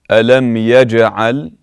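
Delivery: ألم يجعل with a bouncing echo on the jim; exaggerated qalqala. Shown as a demonstration. Teacher exaggerating qalqala for students. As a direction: overdo the jim stop so it rings. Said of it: "slightly exaggerated so you can hear".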